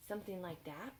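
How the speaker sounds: soft whispered suggestion; gentle whisper. Acted. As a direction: whisper it tenderly.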